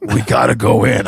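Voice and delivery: lightly voiced buddy impression; Brian. Friend outside his house, light imitation. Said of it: "He goes".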